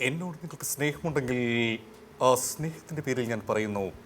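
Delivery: measured film-hero appeal; lightly voiced heroic actor, pausing between phrases; Jayan. Appealing in the name of love, film-hero impression. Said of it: "അങ്ങാടിയിലെ ശബ്ദം ചെയ്യാം".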